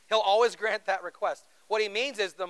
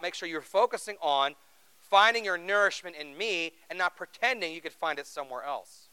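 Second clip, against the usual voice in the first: ordinary delivery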